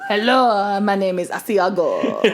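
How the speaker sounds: hammed-up Spanish avenger with a slow, low finish; mock Spanish accent. Co-host spoofing a vengeful swordsman as cheese, mock Spanish accent. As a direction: play a Spanish swordsman, lightly overdone.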